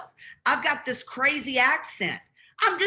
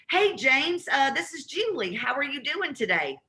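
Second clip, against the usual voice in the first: upbeat, familiar caller hello; friendly cold call greeting; 2 semitones higher than usual. Shown as a demonstration. Caller greeting James like an old friend, upbeat. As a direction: sound like you already know him. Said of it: "if I go".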